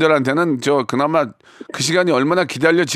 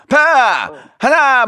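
call-out; 8 semitones higher, 4 dB louder, much slower than usual. Retold or imitated. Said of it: "취임새를 주세요?".

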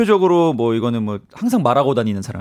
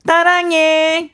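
high, slow lisping cutesy voice; lisping baby talk; 13 semitones higher, 4 dB louder, much slower than usual. Retold or imitated. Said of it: "혀 짧은 소리로 애교를". (혀 짧은 애교 목소리)

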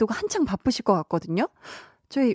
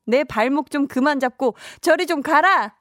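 mock shout at sister; 4 semitones higher, 4 dB louder than usual.

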